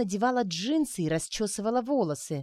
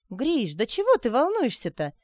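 high, loud teasing smirk; 6 semitones higher, 4 dB louder than usual. Acted. Arina teasing nervous Grisha with a smirk. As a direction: tease him for being nervous. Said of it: "усмехнулась Арина".

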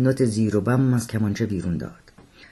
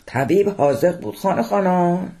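raised, higher voice over the fire; speaking loudly; 8 semitones higher than usual. Acted. Seyed talks loudly to Abbas Khan while fanning the fire. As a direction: call it out loud while fanning.

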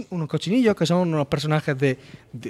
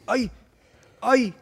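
higher, whining cannon with a blocked nose; whiny stuffed-up cannon; 4 semitones higher than usual. Retold or imitated. Retelling the game to a friend, a higher whiny stuffed-up cannon voice.

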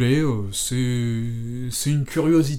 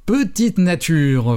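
slow, drawn-out mocking taunt, a little louder; mock bellow; 4 semitones higher, 5 dB louder, much slower than usual. Nurse mocking Johnny after the push-ups: slow mocking taunt. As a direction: tease him as a weakling, hammed-up. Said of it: "vociféra l'infirmière".

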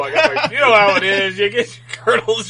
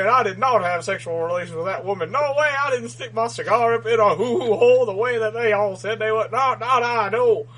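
bad Bill Clinton; 3 semitones higher than usual. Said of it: "I don't know that I can do a good Bill Clinton".

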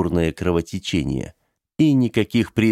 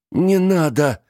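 sharp high no as he pins him down; forceful no; 8 semitones higher, 3 dB louder, slower than usual. Acted. Benedict pins the old man down, a sharp high no. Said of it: "сказал мистер Бенедикт и с силой придавил".

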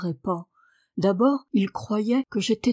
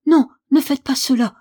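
high, loud pleading shout; alarmed outcry, pitched up and forceful; crying out; 5 semitones higher, 11 dB louder than usual. A narrator's reading. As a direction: cry out in desperate protest. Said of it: "cria-t-elle".

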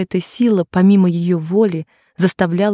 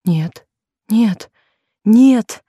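cry out; 4 semitones higher, 3 dB louder, much slower than usual. A narrator's reading. Jennie recoiling from the money, crying out. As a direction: cry out, last no loudest. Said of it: "вскрикнула она".

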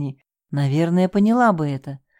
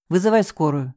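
barked order. Acted. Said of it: "рявкнул Тимур".

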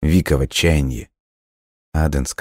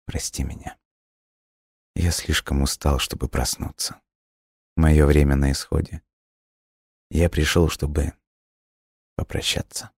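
hushed, gentle near-whisper; soft and tender; 3 dB quieter than usual. A narrator's reading. Dying boy says farewell to the girl, soft and tender. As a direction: say goodbye tenderly and quietly. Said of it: "Его голос прозвучал мягко и ласково".

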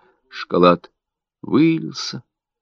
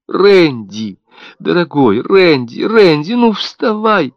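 climbing higher and louder, the last plea slowed; desperate pleading; 8 semitones higher, 5 dB louder, slower than usual. A narrator's reading. Mother clutches her cold baby, begging him to get up in rising panic.

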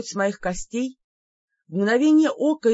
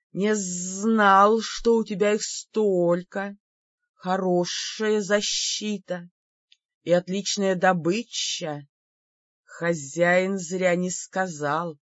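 creeping nightmare whisper; slower than usual. Acted. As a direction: savor it like a hungry snake. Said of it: "Тихо так прошипел, с предвкушением, почти по-доброму".

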